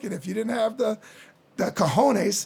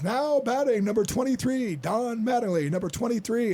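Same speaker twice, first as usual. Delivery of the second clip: Bob Shepard; 4 semitones higher than usual. Retold or imitated. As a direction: stretch it out like a stadium PA announcer. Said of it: "Bob Shepard says".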